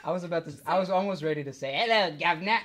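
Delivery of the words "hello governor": a hint of British accent, laughing; cheery British greeting. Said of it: "do the best British accent".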